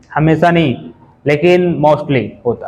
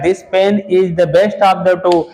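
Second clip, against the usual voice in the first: "this pen is the best of the two" read out slowly and clearly, still slow but less so; quoting the sentence; much slower than usual. Shown as a demonstration. Teacher quotes the wrong exam sentence, slow and clear. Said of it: "कह रहा".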